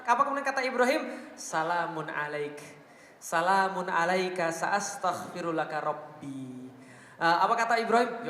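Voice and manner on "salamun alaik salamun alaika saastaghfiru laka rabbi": slow, measured Arabic chant; Quranic recitation. Acted. Preacher reciting Abraham's words to his father, slow reverent chant. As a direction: recite the verse slowly and reverently.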